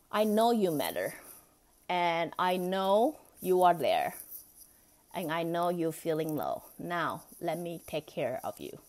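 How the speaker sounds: put-on cradle the words like comforting a hurt child; tender reassurance. Shown as a demonstration. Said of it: "We say".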